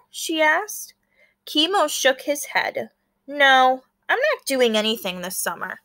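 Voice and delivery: lively read-aloud with small character voices; story narration. A narrator's reading. Teacher reading a picture book to her class, storytelling. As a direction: bring the classmates' lines to life.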